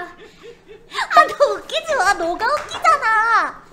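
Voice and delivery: loud laughing complaint; laughing protest. Real, not acted. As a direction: blame them while cracking up. Cracking up, blaming friend.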